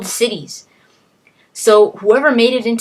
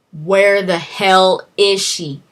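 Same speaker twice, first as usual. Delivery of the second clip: frantic demand; 6 dB louder, slower than usual. Retold or imitated. Hoffman panicking about wife.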